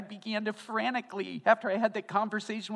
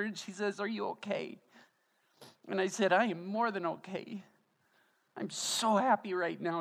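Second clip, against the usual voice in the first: raised, choked-up voice holding back tears; tearful; 4 semitones higher than usual. Real, not acted. Pastor to his church, retelling the coffee shop, tearful. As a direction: push through the story while close to tears. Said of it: "like it is right now for me".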